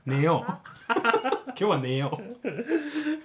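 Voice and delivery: put-on slow, slurred drunk voice; blackout drunk. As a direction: mumble it like you're wasted. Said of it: "ベロベロで".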